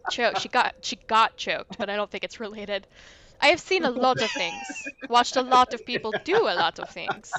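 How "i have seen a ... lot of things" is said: put-on light French accent, sly and teasing; a mild French ghost, coy. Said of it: "the accent".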